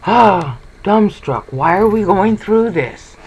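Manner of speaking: hammed-up bewilderment; mock dumbstruck. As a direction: act stunned and baffled, voice up. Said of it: "So then you're just".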